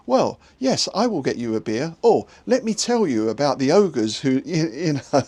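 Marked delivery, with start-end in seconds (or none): 0.1-1.9 mildly put-on GM character voice, starting higher; same-for-all character voice. Game master as Bill the barman serving beer, lightly put-on stock voice. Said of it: "they all kind of spoke like this". 2.5-4.4 lightly imitated stock character voice; mock a GM's one voice for everyone; same-for-all character voice. Game master's character telling of ogres, lightly put-on stock voice. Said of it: "they all kind of spoke like this".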